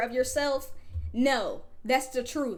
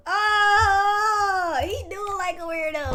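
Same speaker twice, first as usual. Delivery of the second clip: laughing; 4 semitones higher, 4 dB louder, slower than usual. Real, not acted. Streamer laughing at guest's looks.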